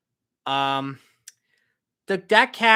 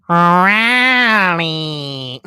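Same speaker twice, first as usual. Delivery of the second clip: loud call-out; 12 dB louder than usual. Real, not acted. Calls out a viewer's name.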